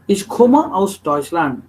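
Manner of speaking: slow, careful "komme" ending on an open vowel; final E. Shown as a demonstration. Teacher modelling the sentence, slow "komme" with final E. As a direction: say "komme" without any N, unhurried. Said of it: "Please understand this".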